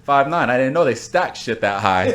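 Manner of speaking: drill sergeant. Retold or imitated. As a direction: bark like a drill sergeant at a recruit. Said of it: "All from Full Metal Jacket".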